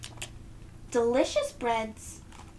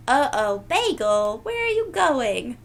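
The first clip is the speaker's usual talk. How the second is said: calling out; 2 semitones higher, 7 dB louder than usual. Real, not acted. Calling after dog.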